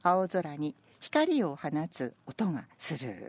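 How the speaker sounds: slow, measured poem reading; poem recitation. Acted. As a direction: read it slowly and evenly. Reads senryu again.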